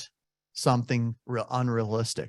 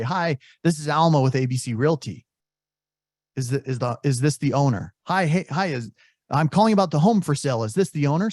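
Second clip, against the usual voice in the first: typical agent pitch; 2 semitones higher than usual. Retold or imitated. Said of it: "He only assumes you're an agent when you say".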